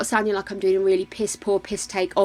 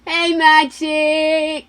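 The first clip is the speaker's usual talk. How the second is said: calling out; 8 semitones higher, 7 dB louder, much slower than usual. Real, not acted. Calling out to the Sim.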